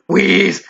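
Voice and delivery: wheezing gasp; breathless wheeze sound; spoken wheeze. Acted. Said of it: "gasping for breath".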